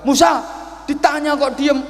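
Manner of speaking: high, loud demanding call; impatient old man. Acted. Old worshipper demanding Musa reveal his fate, impatient. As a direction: press for an answer.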